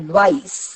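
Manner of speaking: "അഡ്വൈസ്" stressed on വൈസ്; light അഡ്, weighted വൈസ് in "അഡ്വൈസ്"; stress on second syllable. Shown as a demonstration. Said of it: "വൈസിനാണ് ഉച്ചാരണം". ("അഡ്വൈസ്" എന്നതിൽ വൈസ് ഊന്നിപ്പറയുക)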